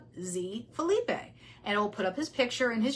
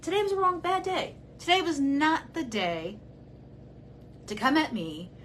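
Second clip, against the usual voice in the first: heated outburst; 5 semitones higher than usual. Real, not acted. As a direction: let the anger boil over at him. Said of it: "I'm already emotional".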